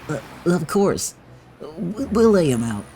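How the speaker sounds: nervous henchman. Acted. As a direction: stammer it out as a scared henchman.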